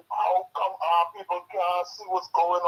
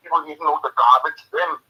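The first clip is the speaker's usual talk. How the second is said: angry rant; 5 dB louder than usual. Real, not acted. Caller venting anger on radio.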